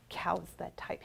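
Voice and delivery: disbelieving whisper. Acted. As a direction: breathe it in shock.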